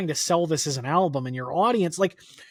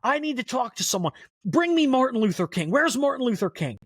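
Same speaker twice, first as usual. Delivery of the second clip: high, anguished wailing plea; imitating a wailing, half-tearful God pleading; tearful scream; 8 semitones higher than usual. Richard Pryor as God to his audience, high tearful wail. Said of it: "tears and scream".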